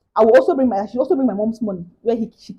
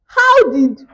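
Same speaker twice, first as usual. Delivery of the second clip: exasperated disbelief; 3 semitones higher, 4 dB louder than usual. Real, not acted. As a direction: pile up the absurd steps, baffled. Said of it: "exasperated rant".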